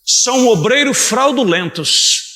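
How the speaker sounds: drawn-out pulpit proclamation; emphatic Scripture reading. Real, not acted. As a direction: stretch each word out as an accusation. Preacher declaims the key verse.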